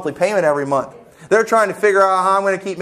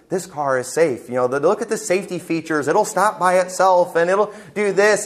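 mock safety car ad. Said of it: "a commercial geared towards ladies".

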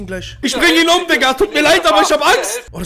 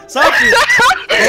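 laughing through the words; 3 semitones higher, 5 dB louder, much slower than usual. Real, not acted. Gamer laughing at the Dutch player's Turkish. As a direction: crack up while talking.

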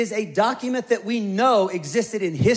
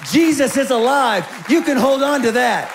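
louder, full-force declaration; proclaiming; 3 semitones higher, 5 dB louder than usual. Real, not acted. Pastor assuring the congregation, loud and ringing. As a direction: preach it out with conviction.

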